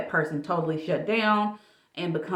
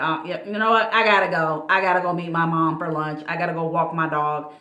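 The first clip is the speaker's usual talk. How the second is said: louder, hurried brush-off excuses; 6 dB louder than usual. Retold or imitated. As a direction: rattle off excuses to leave. Mimicking someone rushing you out.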